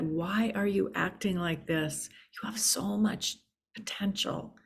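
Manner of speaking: gently earnest retold plea; firm, caring teacher urging a student, lightly voiced; firm but loving. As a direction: speak firmly, with love underneath. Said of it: "very firmly but very lovingly said".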